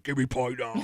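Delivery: mock-bossy craving wife; hammed-up hungry wife demanding pie; demanding pregnant wife. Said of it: "she woke up and was like".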